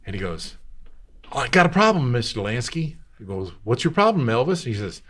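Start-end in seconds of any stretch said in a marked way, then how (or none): 1.3-3.0 put-on a higher, louder sheepish boy; young singer's voice. 3.6-4.7 higher, louder shopkeeper asking. Retold or imitated. Shopkeeper voiced.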